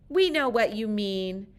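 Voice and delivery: mild yell. Retold or imitated. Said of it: "we yell".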